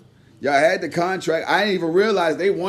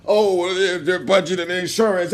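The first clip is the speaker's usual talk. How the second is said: mock excuse; 2 semitones lower than usual. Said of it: "mocking Joe's excuse".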